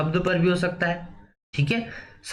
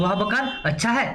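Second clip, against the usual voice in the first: higher voice, "अच्छा है" rising in mild surprise; exclamation of wonder; 3 semitones higher than usual. Shown as a demonstration. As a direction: marvel lightly, tune climbing on "अच्छा है". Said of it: "विस्मय दिबोधक". ("अच्छा है" पर ऊँचा, विस्मय भरा सुर)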